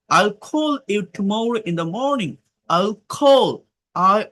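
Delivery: very slow, word by word, as if dictating to a class; slow dictation reading. Shown as a demonstration. Teacher reading a conversation to students, slow dictation. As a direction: spell the dialogue out slowly for learners. Teacher reads dialogue slowly aloud.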